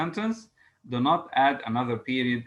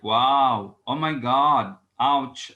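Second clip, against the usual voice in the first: louder punchy interjections, each one its own burst; exclamatory interjections; 6 dB louder, much slower than usual. Shown as a demonstration. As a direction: sell each interjection as a strong emotion. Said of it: "It indicates strong emotion".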